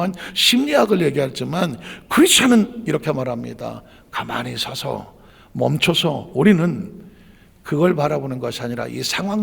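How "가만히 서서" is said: slow, quiet stillness. Shown as a demonstration. Slow soft command.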